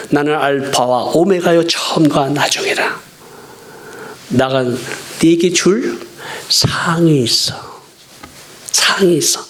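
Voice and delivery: a hint of a solemn divine voice; solemn voice of God. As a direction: speak as God, weighty and unhurried. Quoting God's words in scripture.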